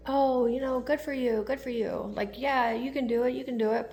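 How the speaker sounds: a hint of the ex being sweetly supportive; imagined supportive ex. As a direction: pretend praise from the ex, mild and upbeat. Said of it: "will be like".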